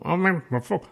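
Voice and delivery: high, loud, hammed-up pathetic pleading; helpless Irishman. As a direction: ham it up like a clueless caller begging for help.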